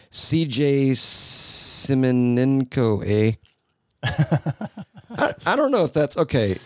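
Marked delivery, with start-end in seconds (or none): 0.1-3.3 mock Canadian, name drawn out slowly; slow, playful Canadian accent with a tagged-on "eh". Shown as a demonstration. Host guessing how a Canadian says the name, mock Canadian accent. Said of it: "if he's Canadian, it's gotta end with an A".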